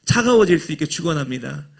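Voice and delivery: preacher's blessing with 차가워질 swapped in, rising at the end; wrong blessing. Shown as a demonstration. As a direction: deliver the absurd blessing in full preaching cadence. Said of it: "이렇게 하면 아멘 안 하잖아요".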